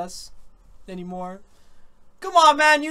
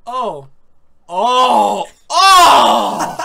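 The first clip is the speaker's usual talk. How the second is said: loud, laughing Oh with a higher second one; laughing exclamations; 3 semitones higher, 13 dB louder, much slower than usual. Real, not acted. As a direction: burst out laughing in surprise. Sudden surprise, laughing outbursts.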